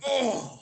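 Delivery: high, teasing imitation of a moan; mock orgasmic moan. Co-host teases friend about his groan, mock moan. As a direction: mimic an ill-timed "oh" in jest. Mimicking co-host's ill-timed groan.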